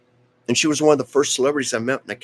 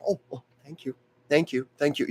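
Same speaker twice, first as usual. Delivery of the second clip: polite thanks; 5 semitones higher, faster than usual. Retold or imitated. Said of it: "She was very polite".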